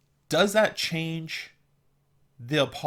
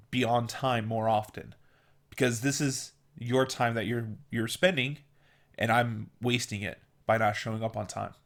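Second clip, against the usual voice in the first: sincere apology. Shown as a demonstration. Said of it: "I go".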